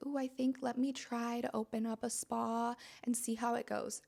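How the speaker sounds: hesitant, unsure mock voice; wishy-washy. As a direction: sound half-hearted and doubtful. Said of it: "this wishy-washy energy like".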